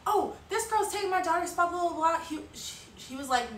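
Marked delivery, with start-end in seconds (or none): 0.1-2.2 higher, louder whiny complaint; retold yell at the organizer; mock yelling mother. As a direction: rattle off the grievance at the organizer. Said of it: "she starts yelling at him".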